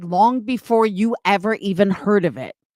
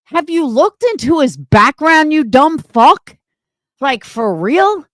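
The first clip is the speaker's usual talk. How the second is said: angry call-out; 4 semitones higher, 4 dB louder than usual. Real, not acted. Calling out Isaac's fans angrily.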